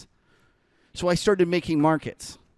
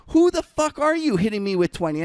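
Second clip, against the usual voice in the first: mock angry shout, higher and louder; imitating an angry trader; 8 semitones higher, 6 dB louder than usual. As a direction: retell his fury, half-joking. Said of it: "and he goes".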